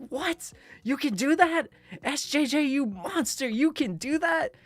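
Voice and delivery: mock disbelief. Mock shock at friend's freedom.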